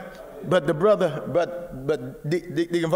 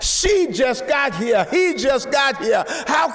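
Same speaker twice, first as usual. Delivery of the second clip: mock complaining shout; 5 semitones higher than usual. Mocking longtime church members' complaints.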